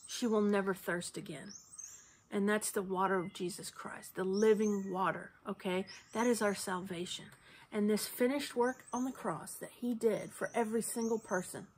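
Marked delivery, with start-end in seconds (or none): 2.3-11.7 choked up while testifying about Jesus; tearful. Real, not acted. Sharing his faith with viewers, voice breaking. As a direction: voice breaking to a near whisper. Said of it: "I'm sorry for breaking down there".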